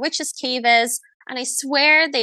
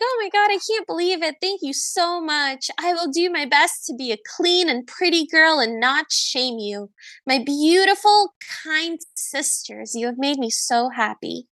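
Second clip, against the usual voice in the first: gushing Cinderella; 2 semitones higher than usual. Acted. Cinderella thanking her stepsisters for the ball invitation, gushingly grateful. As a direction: play a naive girl overflowing with thanks.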